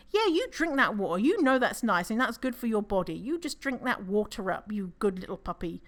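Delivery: lilting praise for a little dog; doting puppy talk. Acted. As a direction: coo approval as to a puppy. Cooing encouragement to a dog.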